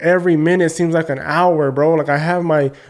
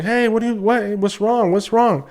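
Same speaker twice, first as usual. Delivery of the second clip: retold panicked scream; 5 semitones higher than usual. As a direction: act out a frantic shout without full volume. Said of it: "I'm screaming".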